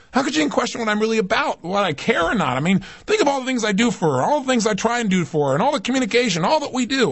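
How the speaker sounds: high-pitched indignant rant, piling up grievances; retold anger. Son fumes over his mother doubting him, retold anger. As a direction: re-enact a worked-up, indignant tirade. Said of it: "'Cause the anger came".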